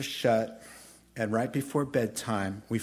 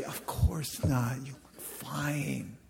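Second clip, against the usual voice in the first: mock reassurance; 4 dB quieter, slower than usual. Acting kind reassurance to crying woman.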